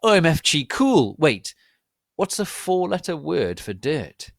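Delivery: loud, high hammed-up sexy voice; mock seductive squeal. A narrator's reading. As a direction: play it as an over-the-top flirt. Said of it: "he asked in his sexar voice".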